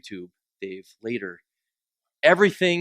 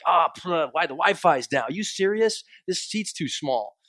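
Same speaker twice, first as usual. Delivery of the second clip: grumbling complaint; 4 semitones higher than usual. Retold or imitated. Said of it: "But we're like".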